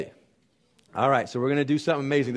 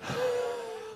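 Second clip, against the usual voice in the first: exhausted gasp; 9 dB quieter than usual. Shown as a demonstration. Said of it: "I should see people going".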